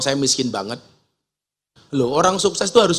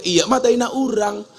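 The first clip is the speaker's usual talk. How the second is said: higher-pitched Sundanese lilt; lightly voiced Sundanese accent; Sundanese reply; 6 semitones higher than usual. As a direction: imitate a Sundanese villager answering. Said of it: "Dijawab sama orang".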